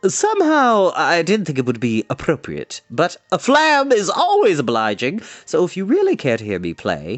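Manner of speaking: a touch of proud, obliging bard; a minstrel half-boasting, half-shy; lightly voiced bard. Fluter replies.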